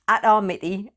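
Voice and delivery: Atar Miti in a British accent; deliberately British pronunciation; best British accent. Shown as a demonstration. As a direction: say the name with plain British vowels. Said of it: "in my best, um, British accent".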